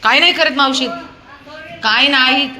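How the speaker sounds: high, loud mock scolding; loud teasing. Real, not acted. Teasing dog loudly. (मोठ्याने चिडवणे)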